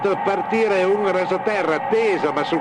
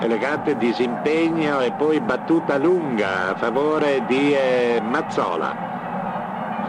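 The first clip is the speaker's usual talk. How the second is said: rising live goal call; breathless italian goal commentary; 4 semitones lower than usual. Real, not acted. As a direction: build to a shouted goal call. Archive radio goal commentary.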